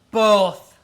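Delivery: shouted "Both!" in delight; excited shout. Real, not acted. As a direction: blurt it out triumphantly. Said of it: "Why not both?".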